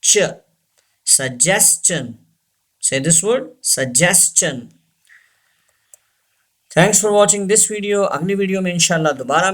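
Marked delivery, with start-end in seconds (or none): 1.1-4.6 suggestion with ch, su-jes-chun; slow model word. Shown as a demonstration. Teacher slowly drilling suggestion for students. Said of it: "This T gives the sound ch".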